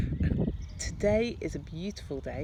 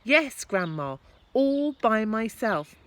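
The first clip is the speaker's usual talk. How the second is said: calling up; 6 semitones higher, 8 dB louder than usual. Acted. George calling up to grandma.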